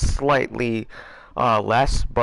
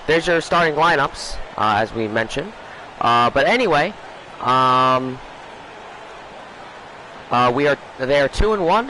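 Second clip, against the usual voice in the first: sports announcer. Acted. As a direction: open the broadcast like a TV commentator. Back into broadcast commentator mode.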